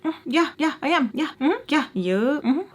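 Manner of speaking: high singsong agreement; mock-helpful string of yeses; sassy confirmation. Sarcastically confirming she is Black.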